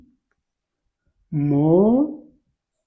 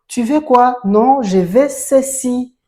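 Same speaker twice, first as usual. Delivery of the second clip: put-on higher, louder playful exchange between two children; acted question and answer; 6 semitones higher, 5 dB louder than usual. Teacher voices two children asking for something, raised and louder. Teacher acts a little request dialogue.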